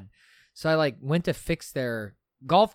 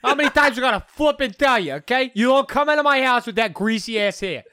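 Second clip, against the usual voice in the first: sassy sister; 11 semitones higher, 7 dB louder than usual. Retold or imitated. Sister at dinner nagging about his greasy hair, sassy and loud. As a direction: scold him like a sassy little sister. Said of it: "She got that sassy vibe".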